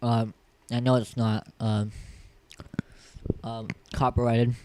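talking around a mint; words round a Tic Tac; mouth full. Real, not acted. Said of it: "Sorry, I'm eating my Tic Tacs".

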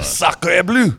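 hammy Frenchman exclaiming; playful French accent. Pretend. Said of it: "you could do that with a French accent too".

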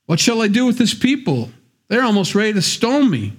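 high, desperate plea to God; crying out. Retold or imitated. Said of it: "Moses cried out to the Lord".

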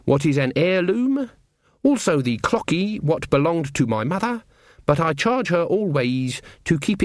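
lightly voiced country witch, lilting and deliberate; old witch reading her will. Voices a character's written will.

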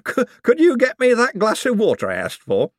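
high, giddy, laughing request. Acted. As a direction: ask through the giggles. Laughing plea again.

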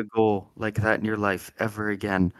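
hushed, restrained golf announcer; golf commentator. Pretend. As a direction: murmur the play like a tense golf green. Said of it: "impression of a golf announcer".

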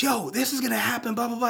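lightly acted urgent appeal, tossed off; Miles Morales. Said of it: "he looks at him and he goes".

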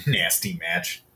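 low, soft, slow, giggling through the words. Real, not acted. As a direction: chuckle it out as if tipsy. Repeats nasty match, laughing.

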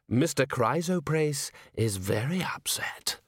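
slow, whispered threat from the shadows; menacing whisper. Acted. Threat from a dark alley.

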